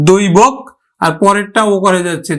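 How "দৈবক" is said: দৈবক with a গ sound added after ব; careful pronunciation. Shown as a demonstration. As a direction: say দৈবক for দৈবজ্ঞ. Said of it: "গ দিয়ে দিলাম একটা". (দৈবজ্ঞ শব্দটি দৈবগ্গ উচ্চারণে)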